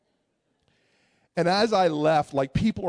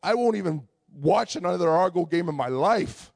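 fed-up vow; 5 semitones higher, 5 dB louder than usual. Retold or imitated. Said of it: "I'm just like".

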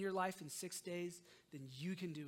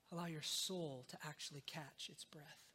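soft breathy whisper; 3 semitones lower, 7 dB quieter than usual. Real, not acted. Pastor promising rest for the soul, whispered.

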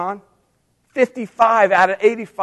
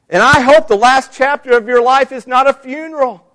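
higher and louder, pleading mother-in-law; pleading Naomi; 5 semitones higher, 3 dB louder than usual. Acted. Naomi pleading with her daughters-in-law to go home, raised and urgent. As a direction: urge them home, begging and heartfelt. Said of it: "Naomi is saying to her daughters-in-law".

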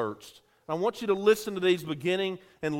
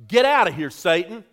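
firm rebuke; 7 dB louder than usual. Shown as a demonstration. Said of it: "we don't say it near enough".

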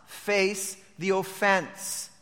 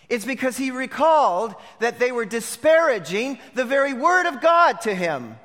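raised, punchy pulpit delivery; forceful preaching; 5 semitones higher, 5 dB louder than usual. Real, not acted. Preacher denouncing the brothers' claim to honesty, forceful preaching. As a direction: hammer each charge home.

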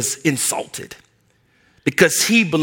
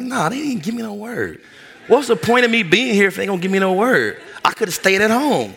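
frustrated complaint; 5 semitones higher than usual. Retold or imitated. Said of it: "I was frustrated".

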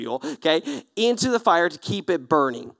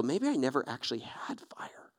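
softer, breathy unvoiced self-pity; mopey whisper; 7 semitones lower, 13 dB quieter than usual. Believer envying worship leaders, mopey whisper. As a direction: mutter it under your breath. Believer doubting past faith.

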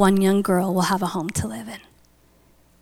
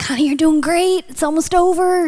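higher-pitched, coaxing reassurance; mild encouragement; 7 semitones higher than usual. Retold or imitated. Friend at her side during C-section, encouraging. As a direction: lift the voice to cheer her on.

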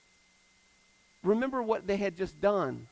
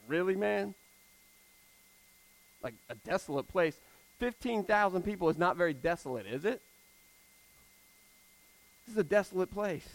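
a dry mocking dig at the teacher; sarcastic jab; 3 dB quieter than usual. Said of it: "if that's not a cheap shot".

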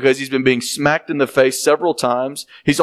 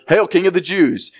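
mock royal greeting, slightly raised; sarcastic; 4 semitones higher than usual. Soldiers jeering at Jesus, lightly sarcastic. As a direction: sneer the hail as a jeer. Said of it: "in a very sarcastic tone".

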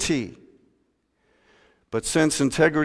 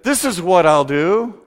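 boastful rich man; 5 semitones higher, 5 dB louder than usual. Acted. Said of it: "he said".

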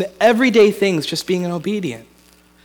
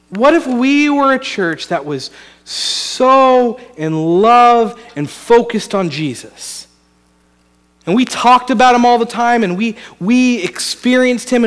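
preaching; 3 dB louder than usual. Acted. Pastor urging his congregation to dream big, in full preaching voice. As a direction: preach it like a stirring vision for the whole church.

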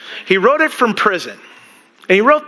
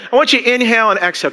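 guided breathing; 4 semitones higher, much faster than usual. Shown as a demonstration. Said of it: "practice breathing here".

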